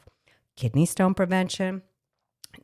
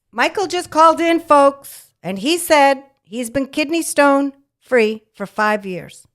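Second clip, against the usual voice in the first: loud, high worked-up rant; exasperated rant; 8 semitones higher, 7 dB louder than usual. Real, not acted. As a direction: get fired up, ranting to the folks. Ranting at the caller's doctor.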